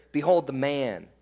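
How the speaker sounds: low, softened, matter-of-fact quote; no danger. Retold or imitated. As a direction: say it quietly, as nothing to fear. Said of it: "There's no danger here".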